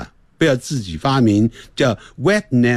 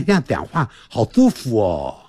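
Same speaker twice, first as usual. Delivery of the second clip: lisping with tongue out; tongue sticking out; 5 semitones lower than usual. Shown as a demonstration. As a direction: speak with the tongue between teeth. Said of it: "这个舌头吐出来".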